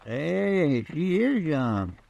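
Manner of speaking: slow, stretched-out remark of surprise; drawn-out marveling. Acted. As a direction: draw the words out, taken aback. Chester first sees the young wife.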